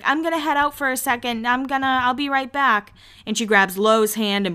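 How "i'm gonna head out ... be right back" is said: higher, breezy quote; lightly voiced quick exit line; voicing Lo. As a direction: toss it off lightly like Lo. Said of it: "She's like".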